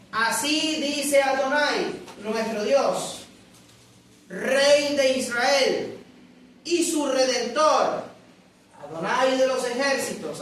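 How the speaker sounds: slow, measured proclamation of the verse; slow solemn scripture reading to the congregation. Acted. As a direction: read it out slowly, weighing each name.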